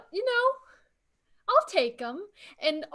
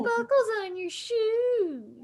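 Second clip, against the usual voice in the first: higher, louder, slow mocking demand; mock pestering fan; 6 semitones higher, 4 dB louder, slower than usual. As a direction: parody a nosy fan grilling a leprechaun. Mocking people's leprechaun questions.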